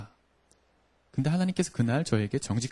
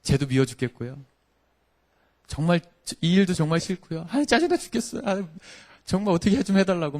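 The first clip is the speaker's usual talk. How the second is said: exasperated outburst, climbing much higher in pitch; venting in prayer; 5 semitones higher than usual. Retold or imitated. Preacher pouring out honest complaints to God, exasperated. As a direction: let pent-up frustration spill out, rising to a fed-up plea. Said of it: "막 기도를 하는데".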